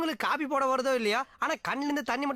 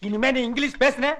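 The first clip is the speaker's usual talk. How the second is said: mock threat; 5 dB louder than usual. Comic threat in quarrel.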